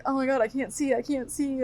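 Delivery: half-whimpering panic; hammed-up crying kid; mock distress. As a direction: fake a teary wail.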